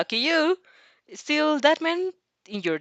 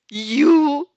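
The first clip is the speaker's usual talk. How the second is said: scolding; 6 semitones higher, 8 dB louder than usual. Acted. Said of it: "Monoma scolds".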